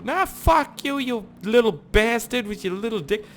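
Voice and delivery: very high mock screech; hammed-up shrieking comeback; imitated angry woman. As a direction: screech the insult back in high pitch. Retold fight, woman's comeback.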